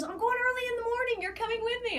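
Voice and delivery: high, bright mock husband announcing the plan; husband's eager call. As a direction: imitate him keen to tee off early. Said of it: "he goes".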